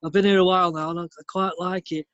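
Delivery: mock northern bloke. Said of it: "I tried to do London".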